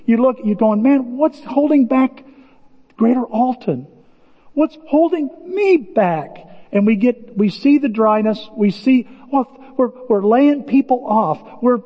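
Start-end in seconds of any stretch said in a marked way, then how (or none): 0.8-6.4 frustrated. Retold or imitated. Voicing frustrated church members.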